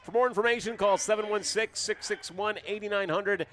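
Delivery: polished radio sponsor read; announcer reading a scripted promo. Real, not acted. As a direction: read the sponsor copy briskly and evenly. Reads sponsor message.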